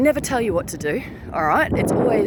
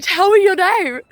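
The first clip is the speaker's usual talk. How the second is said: higher, louder command; loud, higher order to a defiant spirit; forceful command; 10 semitones higher, 8 dB louder than usual. Retold or imitated. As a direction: order the ghost to answer. Demanding the ghost's name.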